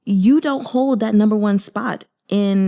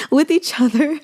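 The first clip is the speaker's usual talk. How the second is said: amused mock repeat; 8 semitones higher than usual. Real, not acted. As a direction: repeat the odd phrase playfully, much higher. Laughing at her own wording.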